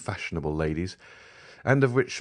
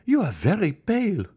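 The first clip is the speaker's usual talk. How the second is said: much higher, a bit louder; cried out; 14 semitones higher, 4 dB louder than usual. A narrator's reading. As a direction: exclaim in alarm. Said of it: "cried Eugénie".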